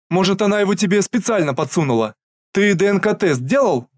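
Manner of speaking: high, loud suspicious questioning; agitated suspicion. Acted. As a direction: press him anxiously. Mother suspects the woman. (взволнованное подозрение)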